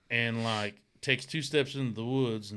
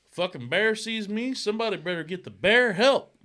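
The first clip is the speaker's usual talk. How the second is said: higher, louder mock bravado; tough-guy boast; 7 semitones higher, 7 dB louder than usual. Imitating the contestant bragging about bears, hammed-up bravado. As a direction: ham up the bear-fighting brag. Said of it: "He's like".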